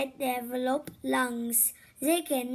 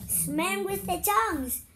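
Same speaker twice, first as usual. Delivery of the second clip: excited repeat; 5 semitones higher than usual. Real, not acted. Child tells mother excitedly.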